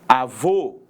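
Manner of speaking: avô with a closed final ô. Shown as a demonstration. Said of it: "Quando nós utilizamos o acento circunflexo". (avô com o ô fechado e forte)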